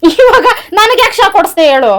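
loud, high, drawn-out complaint; indignant demand. Real, not acted. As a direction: demand an explanation from your husband, stretching the words. Wife demands why he shocked her.

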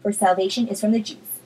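brisk, animated scripture reading; Bible reading aloud. Acted. Reading John four in a quick Bible study, animated read-aloud. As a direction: read the chapter out expressively.

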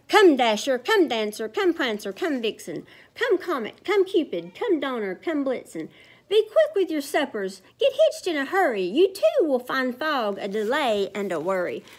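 lightly voiced Santa calling names; rally the team by name; Santa calling reindeer. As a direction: Santa summoning his reindeer, a hint of urgency.

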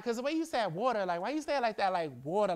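"water" with an O-like aw vowel; New York "water". Retold or imitated. Girl mocking his accent, O-heavy "water". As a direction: mimic a New Yorker's "wawter". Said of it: "y'all put an O in there".

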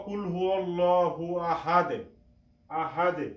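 আহাদে closed on an echoed D, no "-un"; pausal ending. Shown as a demonstration. Teacher answers how to read when stopping, pausal echo. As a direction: bounce the final D of আহাদে and stop. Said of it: "কি করে উচ্চারণ করব".

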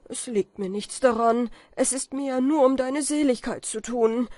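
hoch und laut, beschwörend; verzweifeltes Flehen. A narrator's reading. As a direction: fleh um seine Seele. Kaspar fleht Falke an. (Kaspar beschwört Falke verzweifelt)

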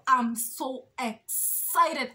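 "so excited" stretched out slowly. Real, not acted. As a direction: savour the excitement, drawing out each word. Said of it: "I'm super excited".

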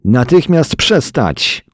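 high-pitched, drawn-out commanding shout; roared order. A narrator's reading. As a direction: order the brawlers to halt at once. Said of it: "ryknął Monroe".

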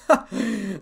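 brief burst of laughter, falling at the end. A narrator's reading. Issei at their gobsmacked faces, laughing. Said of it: "laughed Issei".

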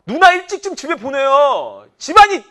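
high, loud, slow mock threat to the boyfriend; mock warning. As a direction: bark it at the sister's boyfriend. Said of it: "한마디". (누나 남자친구에게 높고 크게 외치는 경고)

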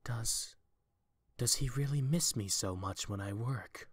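soft, hesitant question; shaken quiet. Acted. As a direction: ask it almost to yourself, hurt. Seto shaken by brother's words.

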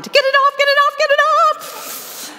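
high, loud panicked shriek; panicked scream. Retold or imitated. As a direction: shriek in panic to get the leech off. Panicking at a leech on himself.

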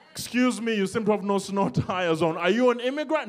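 mock officer politely questioning a driver; lightly voiced polite cop; police officer. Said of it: "when the police show up".

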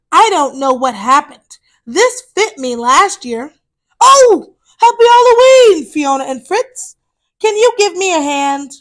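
a big cat asking for help; friendly tiger. Acted. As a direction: tiger greeting the hippos loudly. Tiger speaking.

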